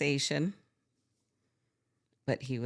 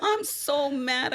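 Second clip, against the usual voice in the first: laughing mock anger; 13 semitones higher, 5 dB louder, slower than usual. Laughing while quoting her own anger.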